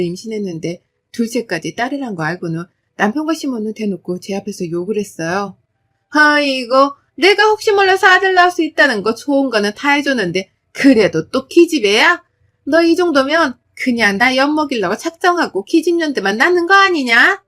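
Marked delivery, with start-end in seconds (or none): 6.1-17.4 loud, high, sneering rant; mother-in-law berating her for another daughter; scornful scolding. Acted. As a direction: spit out the insult about another girl. Mother-in-law curses second daughter.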